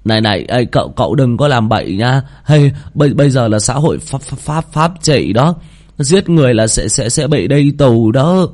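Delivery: scared student tripping over his words; panicked stammer. Acted. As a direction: plead in a high, nervous stutter. Friends panic at a veiled threat.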